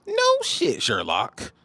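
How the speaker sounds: shrill sarcastic jab at the commenter; mock squeal. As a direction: squeal it in ridicule. Mocking high squeal.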